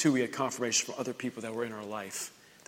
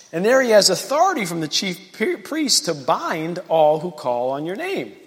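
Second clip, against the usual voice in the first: nervous Ananias; 4 semitones higher, 8 dB louder than usual. Retold or imitated. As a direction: plead with the Lord like a nervous servant. Ananias nervously questioning God.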